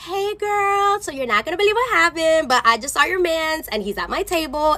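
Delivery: high held notes, retold careful greeting; wary singsong. Server phones friend about her man, wary singsong.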